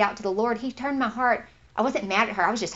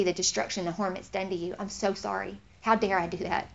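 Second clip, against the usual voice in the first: understated, earnest contrition; sincere apology. Acted. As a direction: model a heartfelt apology, softening toward the end.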